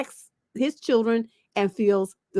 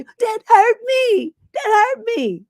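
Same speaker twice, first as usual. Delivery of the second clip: high, slow, whiny crybaby voice; mock whiny crybaby; 12 semitones higher, 5 dB louder, slower than usual. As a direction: whine it like a hurt crybaby.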